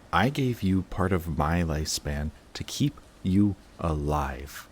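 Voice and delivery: hushed, breathy whisper of a confession; a whispered secret admission. Acted. Confession right after the outburst.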